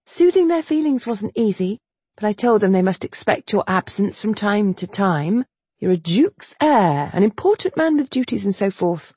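gently smooth things over with him; lightly voiced heroine. Governess to the duke's heir, lightly coaxing.

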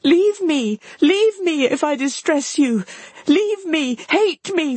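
high, anguished pleading; acted despair, pitched far up; distressed cry. A narrator's reading. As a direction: beg and reproach in a high cry. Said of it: "cried Marianne".

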